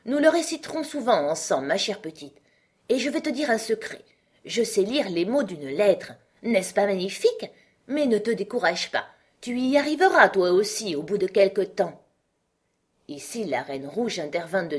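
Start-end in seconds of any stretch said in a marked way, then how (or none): 0.1-12.0 encouraging queen. Acted. White Queen confides in and encourages Alice.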